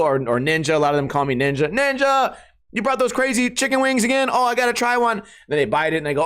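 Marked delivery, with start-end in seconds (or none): 1.7-5.2 high-pitched, eager party-goer; excited greeting. Retold or imitated. Potluck friends spotting his spicy wings, excited. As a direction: imitate a friend thrilled at the arrival.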